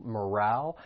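morale with the stress on RALE; stress on second syllable. Shown as a demonstration. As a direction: say morale as muh-RAL, weight on the end. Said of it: "the stress is on that second syllable".

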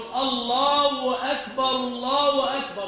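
الله أكبر slurred to "Allaw-akbar", drawn out; common adhan error. Shown as a demonstration. Teacher demonstrates a widespread mistake, glided الله أكبر. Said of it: "وهذا منتشر وشائع".

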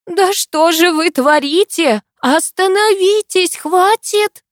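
high, slow, desperate begging; frantic high-pitched pleading; terrified plea. A narrator's reading. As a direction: beg them to stop in terror. Heroine begs fighters to stop.

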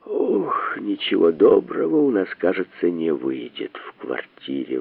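ominous thought. A narrator's reading. Bormenthal thinks gloomily to himself, soft and low. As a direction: think it with a sinking sigh. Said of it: "пророчески подумал".

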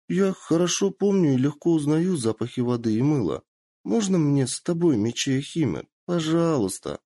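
put-on high, eager young girl. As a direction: beg sweetly like an excited girl. Kitsune pleads to join.

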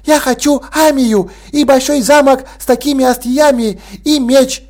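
высокий детский голос, на одном дыхании; выпаливает желание; ребёнок выпалил. Acted. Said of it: "стремительно выпалило". (девочка выпаливает свои желания Санте)

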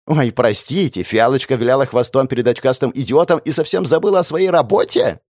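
nasty mocking parody. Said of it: "исказил голос в мерзкую пародию".

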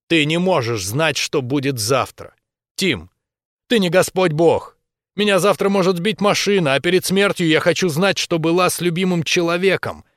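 high, loud desperate outcry; shouting. A narrator's reading. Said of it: "прокричала последние фразы". (жена кричит мужу, громко и высоко)

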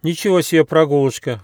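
high, loud amazed cry; exclamation. A narrator's reading. Squirrel cub gazing at the peaks cries out amazed. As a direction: gasp it out in wonder. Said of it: "воскликнул Бельчонок".

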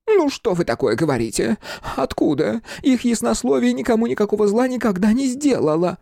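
высокий возмущённый голос фамильяра; отмахнись с обидой, тонко. Acted. Фамильяр защищает госпожу. (возмущённый фамильяр, высоко)

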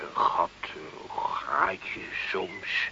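slow, whispered and searching; gentle whisper. Acted. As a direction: ease it out like a confidence. Priest musing gently.

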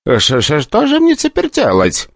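high, desperate stuttering plea; terrified director pleading; panicked stammer. Acted. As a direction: beg in sheer panic.

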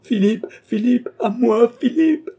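very high, loud call for help; frantic screamed name; crying out. A narrator's reading. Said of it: "cria André en rentrant".

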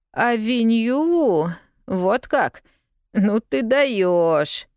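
put-on slow, drawn-out impressed boy; mock amazement at her; whistling surprise. A narrator's reading. Newsboy to lost girl, slow drawn amazed. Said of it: "присвистнул мальчишка".

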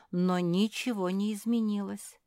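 plain reading voice

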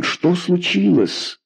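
high, slow anxious question; startled, almost pleading; alarmed question. A narrator's reading. Malikan asks in alarm, high and drawn out.

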